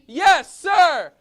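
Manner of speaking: high, loud soldier's shout; shouted yes sir. Shown as a demonstration. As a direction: bark it out like a drill recruit. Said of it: "loud and proud".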